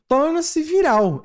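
high, slow scornful read; "Torna-se viral" drawn out with disdain; disdainful. Retold or imitated. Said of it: "Ele falou com desdenhos aqui".

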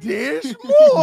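very high, loud squeal; high excited squeal. Acted. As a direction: squeal it with delight. Hyped echo of the catchphrase.

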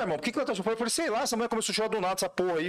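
gruff retelling. Retold or imitated. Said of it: "Falei desse jeito".

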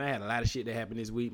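strained cracking voice, fast. Real, not acted. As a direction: talk through a cracking voice. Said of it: "My voice is cracking already".

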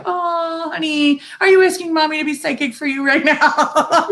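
mock sweet, teasing mom with a laugh; laughing sarcasm at a grown son; honey-coated sarcasm, half laughing; sarcastic mother. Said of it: "I am so that sarcastic mother".

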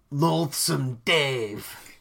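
drawn-out mock Manchester accent drifting into Scottish; bad Manchester accent. Host naming the opening track, botched Manchester accent. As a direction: attempt a Manchester accent and land nearer Scotland. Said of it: "every time you do that accent, it sounds like you're from Scotland".

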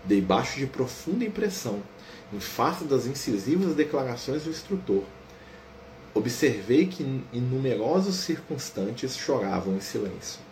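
slow, calm book narration; story narration. A narrator's reading. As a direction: narrate the scene gently and evenly.

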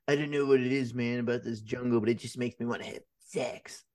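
a hint of a spaced-out stoner quote. Imitating the movie's stoner in the jungle, lightly voiced stoner. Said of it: "like, a stoner".

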